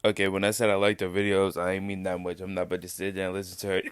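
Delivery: talking through hiccups; hiccuping between words. Real, not acted. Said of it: "Sorry about the hiccups".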